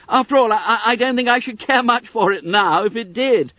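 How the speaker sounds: high, squeaky fat schoolboy; Bunter voice. A narrator's reading.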